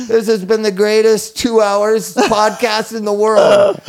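slow, hammed-up big-show proclamation; mock announcer. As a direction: boom it out like a showman. Wrapping up the show grandly.

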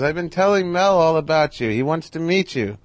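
imitating Carl Reiner. Carl invites him to dinner.

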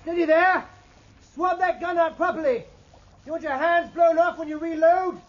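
sharp reprimand. Acted. Officer scolding gun crew.

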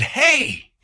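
sharp high yell; retold shout. Homeowner shouting down the attacker, loud high yell. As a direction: shout to stop him cold. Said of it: "raised the hammer this time even higher and said".

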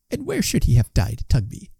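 indignant question without raising the volume; crying out in challenge. A narrator's reading. Wife challenging Tugby about the dying man, high indignant voice. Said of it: "cried his wife".

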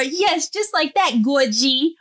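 put-on high, slow sing-song praise for a toddler; sweet mommy praise. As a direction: coo it like praising your little girl.

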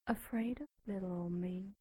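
softly mocking whisper; taunting whisper. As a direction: breathe it like a teasing secret.

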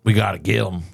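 lightly voiced country lookout; hick lookout voice. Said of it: "That was great".

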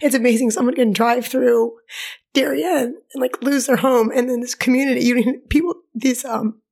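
holding back tears; teary-eyed. Real, not acted. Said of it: "teary-eyed, so I gotta back up".

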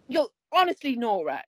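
mildly scolding the dog; imitating an exasperated owner's reprimand; retold telling-off. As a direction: tell her off like a person, lightly hammed. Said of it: "he was telling her off like".

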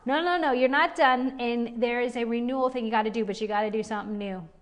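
emphatic preacher's exhortation; emphatic passion. Shown as a demonstration. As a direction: push them on with fiery urgency. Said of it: "my emphatic passion inside of me as like".

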